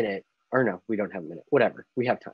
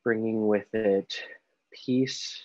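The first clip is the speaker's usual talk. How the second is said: slow, unhurried meditation guide with long pauses; guided meditation. Acted. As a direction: ease them gently through each breath, leaving space between phrases. Leads a guided breathing meditation.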